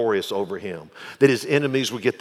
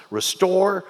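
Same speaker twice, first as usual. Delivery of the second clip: ringing, slow pulpit proclamation; declared aloud; 7 semitones higher than usual. Shown as a demonstration. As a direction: proclaim it to the back row. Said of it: "repeated line".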